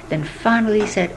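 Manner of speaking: plain reading voice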